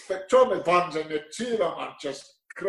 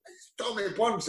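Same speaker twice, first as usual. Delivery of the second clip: "It's Tommy Burns." said much softer, barely voiced, as if mouthing it; mouthed aside; 4 semitones higher, 6 dB quieter than usual. Agent mouthing the caller's name across the car, much softer. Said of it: "Bill McMurdo's giving".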